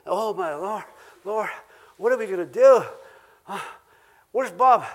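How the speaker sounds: hammed-up anxious fretting; mock panic. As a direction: act out the frantic worrier. Acting a panicked worrier.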